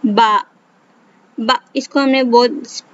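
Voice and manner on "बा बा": बा said as a clear ba; ba with zabar. Shown as a demonstration. Teacher reads the letter with zabar, steady. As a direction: read बा evenly, not rushed. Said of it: "अब इसे पढ़ते हैं".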